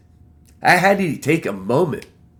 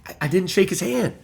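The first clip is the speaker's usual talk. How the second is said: excited pleading; 6 semitones higher, faster than usual. Retold or imitated. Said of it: "I'm like".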